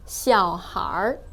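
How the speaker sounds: 小孩儿 ending in a curled-tongue er sound; retroflex er ending. Shown as a demonstration. Teacher asking learners to just listen, er ending on 小孩儿. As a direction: say 小孩儿 with 孩儿 merged into one r-coloured syllable. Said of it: "there's a er sound at the end".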